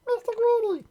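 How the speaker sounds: tiny squeaky very high voice; frightened squeak. A narrator's reading. Mister Greedy answering the giant, very high frightened squeak. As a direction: squeak out your name, terrified. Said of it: "he squeaked".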